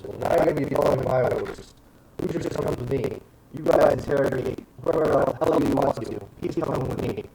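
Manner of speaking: brisk, mildly angry officer; commanding retort. Acted. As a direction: overrule them firmly. Commander overrules the inquisitor.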